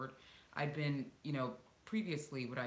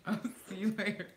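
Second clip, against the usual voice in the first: laughing goodbye; 8 semitones higher, 7 dB louder, faster than usual. Real, not acted. Laughing while saying goodbye to son.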